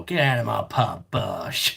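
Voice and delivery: light mock landlady shout, "Get out of my pub" thrown out; a hint of a pub landlady throwing someone out; Peggy style. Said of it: "Peggy style".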